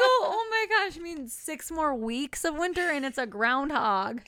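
high, loud "oh my gosh" through laughter; amused disbelief. Retold or imitated. Mom retelling correcting her son's groundhog mix-up, laughing. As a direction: correct the kid while cracking up. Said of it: "And I go".

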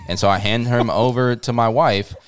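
normal talking voice

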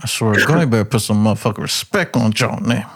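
words pushed out through clenched teeth; through gritted teeth. Retold or imitated. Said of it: "I started talking through my teeth".

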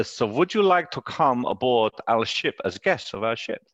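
lightly put-on German accent; a half-hearted German accent for a formal invitation; careful invitation in mock German accent. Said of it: "do a German accent, but I'm obviously am".

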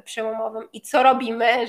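usual speaking voice

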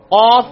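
قاف from the back of the throat, loud; heavy uvular ق in قاف; deep qaaf. Shown as a demonstration. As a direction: hit the ق deep at the back palate. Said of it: "ابھی آپ practice کریں".

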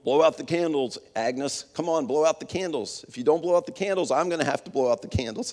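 a hint of gruff cook, half under breath; lightly voiced gruff cook hiding his feelings; gruff mumble. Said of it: "gruffly mumbled".

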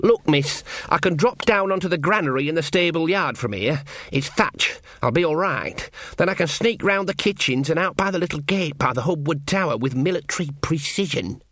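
lightly voiced earnest young soldier; Sean Ogg. Narrator voices Sean planning his escape.

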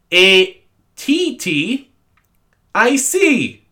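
ATTIC spelt out letter by letter, each one drawn out and high; over-pronounced. Retold or imitated. Teacher spelling attic for the class, over-pronounced. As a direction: exaggerate every letter, A T T I C, slowly. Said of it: "she did it in such a pronounced way".

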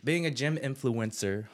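slow, deliberate retake; slow careful retry. Real, not acted. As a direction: say it slowly this time. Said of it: "I stuttered".

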